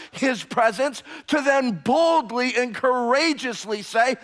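loud, high preaching cry; fiery pulpit delivery; full-force preaching. Acted. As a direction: proclaim it to the back wall.

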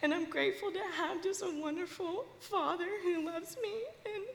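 tearful confession about her father; real crying. Real, not acted. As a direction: push the words through sobs. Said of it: "I'm sorry I'm crying".

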